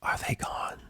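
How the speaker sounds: breathy hushed question; soft fearful whisper. Acted. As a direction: whisper into the dark. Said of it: "some pony whispered".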